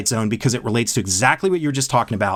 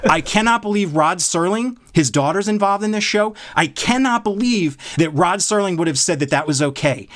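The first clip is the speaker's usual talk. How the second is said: higher, indignant retelling of his outburst; worked up disbelief; 5 semitones higher than usual. Retold or imitated. Telling his co-host how incensed he was, in raised indignant disbelief. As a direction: fume in disbelief at the show. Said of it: "you see how worked up I am".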